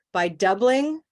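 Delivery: "By doubling" as its own piece, left rising; short chunk. Shown as a demonstration. Teacher asking where to pause, "By doubling" hanging on a rise. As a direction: stop after "By doubling" with a rising tune. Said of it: "break it up into smaller pieces".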